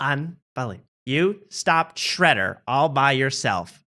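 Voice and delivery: slow, lightly imitated admiration; Tony impression. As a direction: draw out the mock amazement a little. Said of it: "I gotta save that voice because that's the exact same voice I will do for Andy Dick".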